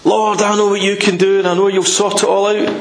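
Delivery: high, confident prayer, lightly hammed up; mock great prayer. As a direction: imitate a grand prayer of faith. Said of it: "And his prayer isn't".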